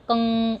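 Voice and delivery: कंग with the sound through the nose; nasal kang. Shown as a demonstration. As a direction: say कंग letting it ring in the nose. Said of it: "ऐसे नाक में से आवाज़ आएगी". (नाक से बोला गया कंग)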